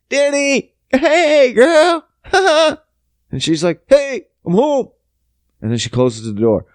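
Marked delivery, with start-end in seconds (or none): 0.1-2.8 high-pitched squealed hello with forced laughter; overeager greeting. Retold or imitated. Caught man greets girlfriend, overeager high cover-up. 3.9-4.9 high, drawn-out homecoming call; girlfriend arriving home. Retold or imitated. Girlfriend walks in on him, high singsong greeting.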